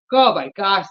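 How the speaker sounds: speaking through a yawn. Real, not acted. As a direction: yawn while saying it. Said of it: "the yawning".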